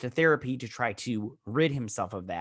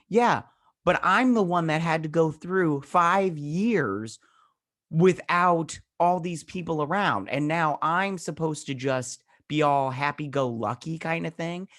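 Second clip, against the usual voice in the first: bitter left-behind voice; 5 semitones higher, 4 dB louder, slower than usual. Retold or imitated. Voicing the left-behind people.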